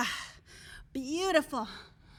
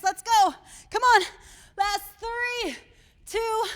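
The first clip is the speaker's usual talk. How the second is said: calling out; 7 semitones higher, 8 dB louder, slower than usual. Real, not acted. Coach pushing class, final seconds.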